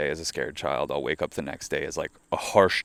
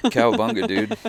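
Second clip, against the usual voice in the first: raised, loud cartoon-kid catchphrase; Bart; 5 semitones higher, 4 dB louder than usual. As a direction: play a lightly voiced cartoon skater kid. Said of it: "Do I sound like Bart?".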